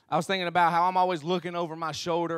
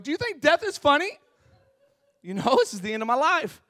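high-pitched, indignant comic protest; mock outrage; 7 semitones higher than usual. Driver to laughing cop, mock outrage. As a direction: protest in hammed-up disbelief.

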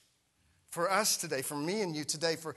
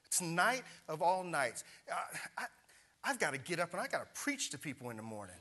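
mock whiny complaint. Pastor mocking his own pity party, whining. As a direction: moan about being stranded. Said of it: "I'm just like".

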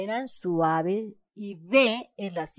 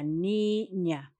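niña drawn out in two separate syllables; slow teacher's syllable split of niña; 4 dB quieter than usual. Shown as a demonstration. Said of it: "¿Cuál de esas dos sílabas suena más fuerte?".

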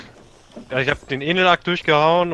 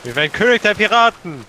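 triumphant cry; 5 semitones higher, 4 dB louder than usual. Pretend. Proclaiming pirate king goal.

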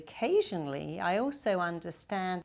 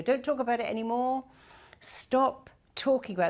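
higher, fast, anxious pleading; mother begging her daughter to stop talking, higher and fast; upset mother; 7 semitones higher, faster than usual. Retold or imitated. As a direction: rush to shut the subject down. Mum upset, stopping the story.

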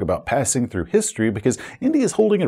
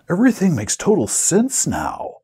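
higher, overdone realisation; mock amazement; 4 semitones higher than usual. Players hear the whole plan, mock-amazed. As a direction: play a player suddenly enlightened.

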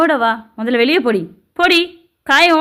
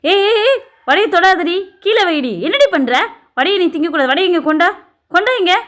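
high, loud scolding; angry shouting; 5 semitones higher, 3 dB louder than usual. Acted. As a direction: shout sharply to stop the child in the act. Stepmother stops child eating the vada.

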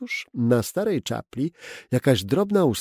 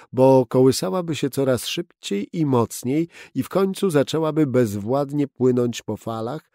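ordinary delivery, nothing marked

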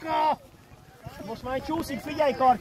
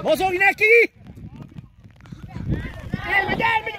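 loud, raised call to players; urgent sideline shout; 2 semitones higher, 4 dB louder than usual. Real, not acted. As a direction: urge them on from the touchline. Urging players during match.

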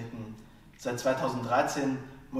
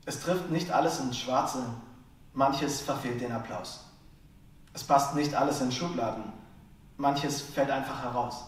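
measured lines with deliberate pauses between; poem recitation. Acted. Slam poet reads a short poem to listeners, measured recitation. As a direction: recite each line as its own statement, emphatic first half.

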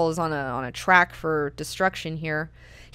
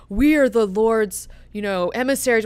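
pompous Korba; 4 semitones higher, 5 dB louder than usual. Retold or imitated. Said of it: "he's like".

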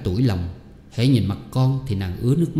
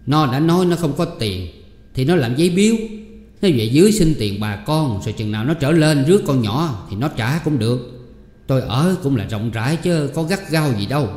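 wife persuading husband; 4 semitones higher than usual. Acted. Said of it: "Thị Phi bèn nói với chồng".

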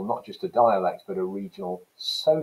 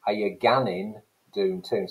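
Geordie dialect. Shown as a demonstration. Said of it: "that's your Geordie English".

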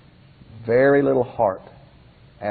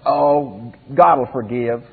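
offhand, taking forgiveness for granted; presumptuous; slower than usual. Shown as a demonstration. Preacher voicing the careless worshippers, presumptuous and offhand. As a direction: toss it off as if forgiveness is automatic. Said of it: "The attitude of one was".

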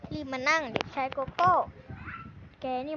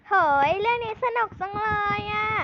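higher and louder burst of delight over the manga; excited shout; 4 semitones higher, 5 dB louder than usual. Acted. Girl reading manga in the library, excited shout. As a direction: blurt out how fun it is, loud. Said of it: "อยู่ๆก็ตะโกนออกมา".

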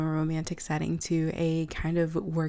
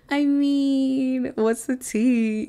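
louder, higher and slow, savoring the gossip; gossipy excitement; 6 semitones higher, 6 dB louder, much slower than usual. Real, not acted. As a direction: stretch out what's the tea like juicy news. Narrator gushing about gossip.

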